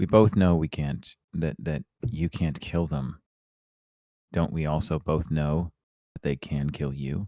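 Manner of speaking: low, hushed murmur under the breath. Falling into step with him as he leaves her office, she speaks in a hushed low voice. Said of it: "in a hushed voice".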